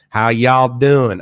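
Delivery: slow, drawn-out try at a Southern accent; half-hearted Southern drawl, slow and a bit loud. Shown as a demonstration. Asked by chat to do a Southern accent, slow half-hearted Southern drawl. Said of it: "Can you do a Southern accent?".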